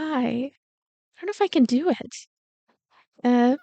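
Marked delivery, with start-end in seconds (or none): none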